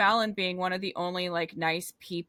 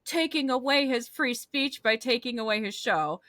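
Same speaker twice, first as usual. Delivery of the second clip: higher-pitched mock complaint; mock whining; 4 semitones higher than usual. Host mimicking people upset over a cancelled show, mock whining. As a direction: imitate whiners with a lightly whiny lilt. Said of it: "all these people whining like".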